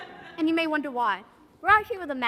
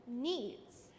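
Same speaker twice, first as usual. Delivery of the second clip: limp; 5 semitones lower, 12 dB quieter than usual. Acted. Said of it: "say needs correctly".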